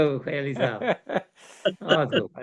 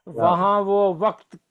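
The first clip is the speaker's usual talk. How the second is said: stately nazm recitation; 2 semitones higher, slower than usual. Acted.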